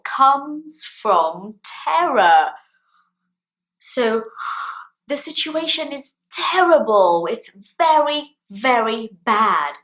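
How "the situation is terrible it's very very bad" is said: gasp, then higher-pitched dismay; dramatic example of dismay; mock alarm. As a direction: act out a dire situation, hammed-up. Acts out the word terrible.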